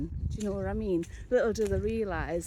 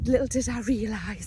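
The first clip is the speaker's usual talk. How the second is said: whisper; 5 dB louder than usual. Acted. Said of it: "ominous aside, whispered".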